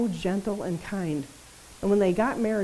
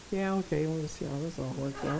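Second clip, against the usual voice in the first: lower, softer amused indulgence; lightly voiced God; 4 semitones lower, 7 dB quieter than usual. God indulging the preacher's goal-setting, lower, softer amused voice. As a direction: humour a stubborn child.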